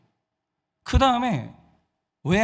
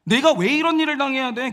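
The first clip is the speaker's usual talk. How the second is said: acted hurt protest, higher pitch; aggrieved outburst; 5 semitones higher than usual. Wronged Sarai asking why she must suffer, aggrieved outburst. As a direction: let the wounded indignation burst out. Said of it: "서러움이 폭발을 하는 거예요".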